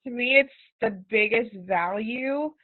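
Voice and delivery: talking with a numb face; numb mouth. Real, not acted. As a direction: speak through Novocaine numbness. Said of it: "Sorry, I feel so weird talking".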